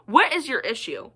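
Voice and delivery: mildly irritated retort; a touch of exasperation; imagined snap. Retold or imitated. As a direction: act out confronting her, voice held in check. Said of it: "I was about to snap at her".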